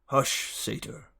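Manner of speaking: slow hushed command; hushed order. A narrator's reading. Chiron silencing Grover, hushed. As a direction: shush him sternly. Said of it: "Chiron ordered".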